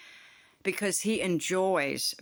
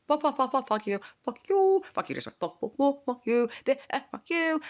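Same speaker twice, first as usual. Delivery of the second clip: furious rant; 9 semitones higher than usual. Real, not acted. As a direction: spit it at the teachers. Ranting at teachers.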